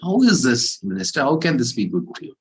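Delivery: high, loud opening of a troubled question; disturbed. Acted. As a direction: demand an explanation, starting high then easing. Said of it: "he becomes a disturb".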